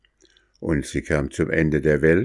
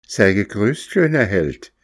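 a touch of sweet friendliness, slightly higher; friendly greeting; 4 semitones higher than usual. Acted. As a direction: lure him with a kind greeting. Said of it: "sprach es freundlich". (Hexe als Mädchen, freundlich lockend)

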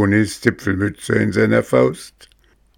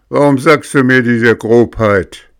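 furious hissed whisper; angry whisper; 5 semitones higher, 6 dB louder than usual. A narrator's reading. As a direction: hiss the accusation in rage. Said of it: "fuhr den Schreiner wütend an".

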